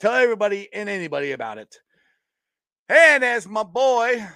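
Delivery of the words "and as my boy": loud, high, stretched-out announcing; big sign-off windup. Real, not acted. Host winding up his closing catchphrase, loud and drawn out. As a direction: draw it out like a hype man.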